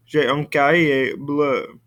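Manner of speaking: "J'ai un cahier bleu" said slowly and clearly; slow French sentence for students; slow French model. Shown as a demonstration. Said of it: "Notebook comes first".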